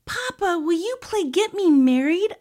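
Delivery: put-on high, excited child voice; high-pitched pleading kid; eager little girl asking. A narrator's reading. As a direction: plead with papa to play. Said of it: "Olivia asked".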